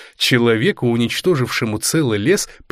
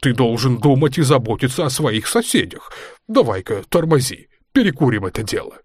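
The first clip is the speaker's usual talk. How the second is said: grunting pig voice. Acted. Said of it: "похрюкивал свин".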